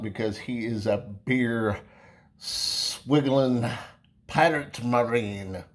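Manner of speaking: a faint, bad Irish accent, drawn out; half-hearted stab at an Irish accent; barely-there mock Irish brogue; worst Irish accent. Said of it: "in my worst Irish accent".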